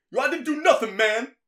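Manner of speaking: high, loud mock protest; gang leader's shouted protest. Imitating an accused gang leader protesting, high loud impression. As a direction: shout back in hammed-up indignation. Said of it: "Probably speaks like that".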